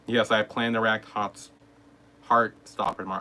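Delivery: slightly lisped through a retainer; talking with a retainer in; wearing a retainer. Real, not acted. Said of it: "sorry if I sound a bit weird".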